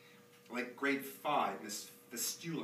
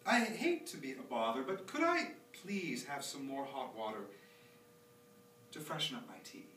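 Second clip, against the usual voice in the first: polite teacher voice. Retold or imitated. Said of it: "her exact words and tone of voice".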